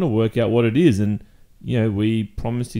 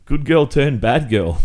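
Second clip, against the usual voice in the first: laughing; 4 semitones higher, 4 dB louder than usual. Real, not acted. Mocking her new image.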